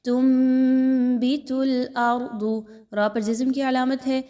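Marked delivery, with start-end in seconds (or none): 0.1-2.4 تنبت with the ن turned into a nasal م, very slow; teacher models iqlab in تنبت. Shown as a demonstration. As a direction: say تنبت as "tumbit", humming the م. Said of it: "اس را کو پر پڑھا جائے گا".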